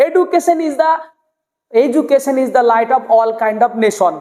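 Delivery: "education" stiff as e-du-ke-san; plain short vowels in "education" and "nation"; old-style pronunciation. Shown as a demonstration. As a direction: say "nation" as ne-shon, no glide. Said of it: "কেমন লাগছে শুনতে".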